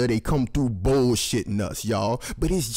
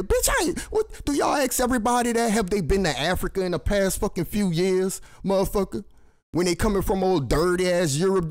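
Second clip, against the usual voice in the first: sudden much higher indignant rant; indignant outburst; 7 semitones higher than usual. Real, not acted. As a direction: fire it back, pitched way up in disbelief. Indignant rant at hospital staff.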